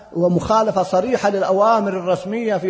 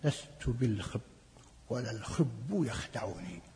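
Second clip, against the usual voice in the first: quoting Umar solemnly; 8 semitones lower, 13 dB quieter, slower than usual. Retold or imitated. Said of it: "كما قال عمر".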